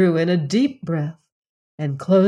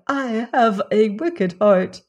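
raised, lamenting cry of self-reproach; grieving peahen crying out before her sisters, lamenting; crying out in remorse; 4 semitones higher, 4 dB louder than usual. A narrator's reading. A peahen torn by guilt cries out louder. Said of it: "she cried".

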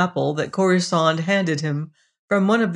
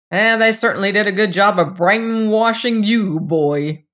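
sighing; 4 semitones higher, 5 dB louder than usual. Acted. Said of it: "Osmond sighed".

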